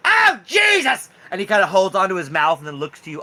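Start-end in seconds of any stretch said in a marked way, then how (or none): 0.1-1.1 very high, slow, loud squealing cry; Lord Jimothy in pain. Acted. Raccoon king losing a tooth, high pained cry. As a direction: wail over the broken tooth. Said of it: "And he goes like".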